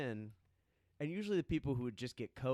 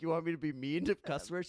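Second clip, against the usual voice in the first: higher, louder mock disbelief; incredulous; 5 semitones higher, 5 dB louder than usual. New bartender questioning the boss's order to be mean, incredulous. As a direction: retell it loudly, baffled by the order.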